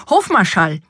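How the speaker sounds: joyful summons to the staff; overjoyed calling out. A narrator's reading. King summons his household for the feast, overjoyed call. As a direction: call everyone over in delight. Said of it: "sich vor Freude nicht zu fassen wusste und rief".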